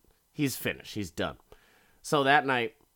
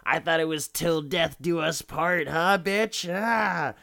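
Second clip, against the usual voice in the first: mildly raised, betrayed accusation building higher; imitated angry reproach, rising at the end; mock yelling; 4 semitones higher than usual. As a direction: act out a wounded husband's rant. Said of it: "He's just yelling".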